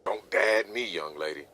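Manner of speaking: stern scolding. Acted. Angry father scolds daughter.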